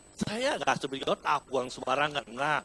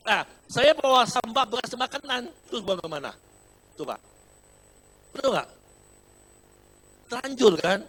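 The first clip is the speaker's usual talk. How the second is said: higher and louder comic exasperation; excited exasperation; 8 semitones higher, 10 dB louder than usual. Retold or imitated. Pastor rousing the congregation over where to throw food scraps, excited and loud. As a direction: whip up the crowd's laughter.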